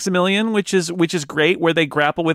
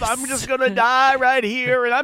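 put-on high, slow, dying old prospector drawl; 12 semitones higher, slower than usual. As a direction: wheeze out a dying old-timer's farewell. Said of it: "Bob is enough of an old prospector".

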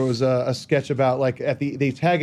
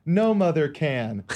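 put-on kid's voice; much slower than usual. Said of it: "a kid's voice going".

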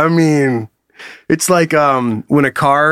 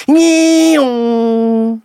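doppler noise; 5 semitones higher than usual. Retold or imitated. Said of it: "that's why it goes".

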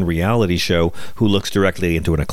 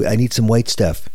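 higher, mock-upset Trump impression; put-on exasperation, pitched up; 4 semitones higher than usual. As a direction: imitate a fussy, put-out president. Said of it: "He's so upset".

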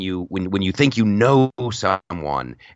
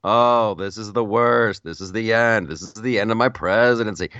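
sarcastic take. Retold or imitated. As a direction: play the despair as a put-on. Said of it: "He could have been, uh, sarcastic".

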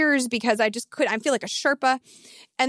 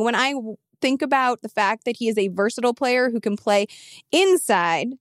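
impassioned. Real, not acted. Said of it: "That was impassioned".

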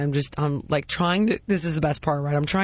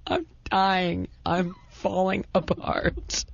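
laughing despair; much slower than usual. Real, not acted. Laughing at the memory.

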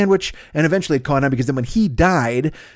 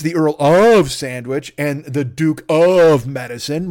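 grand announcer voice; 3 dB louder, much slower than usual. Acted. Grand titles sound impressive.

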